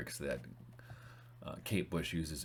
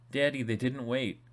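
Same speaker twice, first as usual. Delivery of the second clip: put-on panicked child; 7 semitones higher, 5 dB louder than usual. Boy panicking on phone to father.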